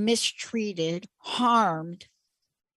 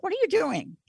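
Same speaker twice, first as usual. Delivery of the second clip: imitated Ghanaian accent, high then falling; high-pitched take on the coach's broken accent; 8 semitones higher, faster than usual. Coach questions the player in a cast, imitated accent. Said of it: "Like that, like".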